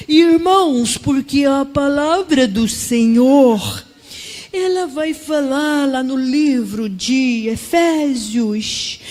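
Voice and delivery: loud, drawn-out impression of a droning preacher; slow inward voice, little expression, projected loudly; Pastor Teófilo. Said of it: "com aquela voz assim pra dentro, e sem muita expressão". (imitação de pastor, voz pra dentro, arrastada)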